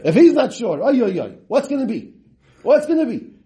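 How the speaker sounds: high, fretful "oy oy oy"; acted worry. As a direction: voice an anxious man fearing what's coming. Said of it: "And he was scared".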